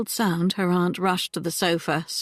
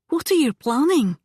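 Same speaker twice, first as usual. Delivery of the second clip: high, loud, urgent question; breathless demand; 7 semitones higher, 4 dB louder than usual. A narrator's reading. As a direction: burst in demanding an answer. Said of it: "she demanded breathlessly".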